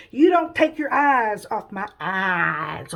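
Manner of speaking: slow, emphatic warning; drawn-out insistence; stern instruction. Acted. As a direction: lay it down slowly, stretching the key words. Jesus sternly instructs Peter.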